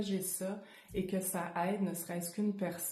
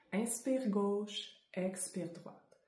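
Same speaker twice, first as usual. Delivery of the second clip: slow guided breathing cue; slower than usual. Shown as a demonstration.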